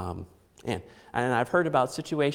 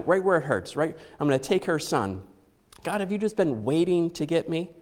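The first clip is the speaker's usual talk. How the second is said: bitter accusing; 4 semitones higher, 3 dB louder than usual. Retold or imitated. Mother voicing bitter suspicion of God.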